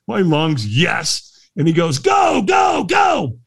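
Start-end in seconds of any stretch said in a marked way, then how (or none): 0.7-1.5 short mock shout of triumph; retold scream. Walker throwing hands in the air, retold scream. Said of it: "I screamed at the top of". 2.0-3.4 very high, shouted send-off; imitated urging shout. Trainer launching the firewalker, urgent shout.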